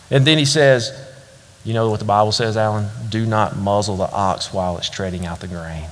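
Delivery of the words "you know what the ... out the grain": a hint of a wise old man; elderly gentleman. Old man quotes scripture.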